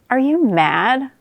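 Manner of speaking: high, exasperated challenge; incredulous protest. Acted. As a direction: question their sanity in disbelief. Newt berates fish's reckless plan.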